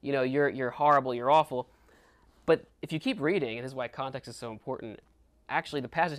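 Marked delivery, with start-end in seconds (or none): 0.0-1.7 mock scolding, louder toward the end; accusatory. Speaker imitates how Peter might seem to the crowd, accusatory. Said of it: "that can seem really like".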